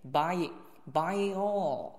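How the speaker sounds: "buy it all" joined with a y sound; linking glide. Shown as a demonstration. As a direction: slip a "ye" between the vowels of "buy it all". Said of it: "给中间加个耶". (连读"buy it all"，中间加个"耶"音)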